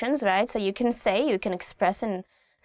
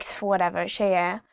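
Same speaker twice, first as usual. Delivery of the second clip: mild dismissive shrug; 3 semitones lower, faster than usual. Shown as a demonstration. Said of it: "you can say to your parents".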